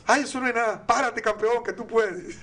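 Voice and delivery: bright coaxing praise to a little champion; encouraging grandpa. Retold or imitated. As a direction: grandfather urging his grandson to get up, cheerfully. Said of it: "Yo le decía".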